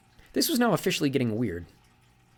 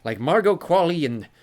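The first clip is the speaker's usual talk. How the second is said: put-on genial old sea god; 7 semitones higher, 6 dB louder than usual. Sea god corrects Magnus, jovial and higher. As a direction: lean on Granddad with amused mock offence. Njord voiced in story.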